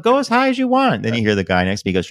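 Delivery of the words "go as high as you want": very high, loud holler; exaggerated high shout of permission; retold calling up. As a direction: imitate yelling up to a kid in a tree. Re-enacts calling up to child.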